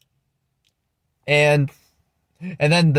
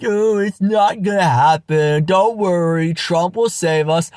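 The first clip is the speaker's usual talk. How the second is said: mocking imitation. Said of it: "And then you're like".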